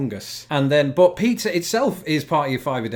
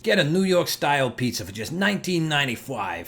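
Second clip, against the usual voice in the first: put-on New York accent. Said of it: "I'm sorry about that as an attempt".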